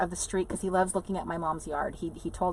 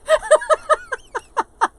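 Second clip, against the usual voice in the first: very high, loud laughing fit; real peal of high laughter; big laugh; 8 dB louder than usual. Real, not acted. Laughing at her own spy cam joke, big high laugh.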